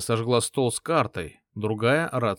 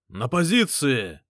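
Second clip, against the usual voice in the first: a mild, slow rallying shout; mild command shout; 3 dB louder, slower than usual. Acted. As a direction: call the men back to their posts. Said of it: "крикнул я".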